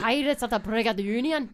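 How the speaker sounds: loud, playful pirate growl; hammed-up pirate accent. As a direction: announce it like a pirate. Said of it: "we were talking about pirates".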